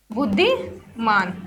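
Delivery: बुद्धिमान drawn out low and soft; slow, low while writing. Shown as a demonstration. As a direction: say बुद्धिमान slowly, under your breath, as you write. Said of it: "wise का मतलब होता है बुद्धिमान".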